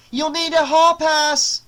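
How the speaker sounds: high, loud, drawn-out call; shout. A narrator's reading. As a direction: shout it after someone leaving. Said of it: "shouted Missus Solomon".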